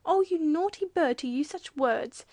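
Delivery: high, loud scolding; exclaimed. A narrator's reading. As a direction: exclaim it like a shocked reproof. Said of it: "exclaimed Dot".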